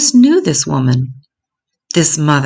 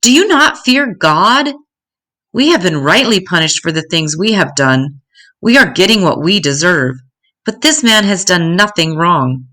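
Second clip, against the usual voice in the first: shouting back; 3 semitones higher than usual. Acted. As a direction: rebuke him, then plead the innocence. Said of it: "Dismas shouted back at him".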